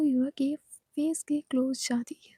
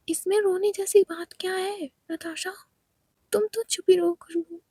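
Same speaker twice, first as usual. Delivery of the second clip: sharp exchange; 4 semitones higher, 4 dB louder than usual. Acted. Quarrel continues.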